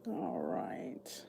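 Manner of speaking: whispered to herself; hushed settling-in whisper. Real, not acted. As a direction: breathe it out.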